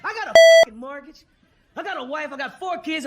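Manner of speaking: loud desperate cry; loud pleading. Retold or imitated. Fired worker shouts his plea at the boss.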